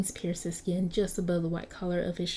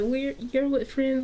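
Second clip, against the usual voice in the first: high mock voice; 6 semitones higher, 4 dB louder than usual. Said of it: "he's like".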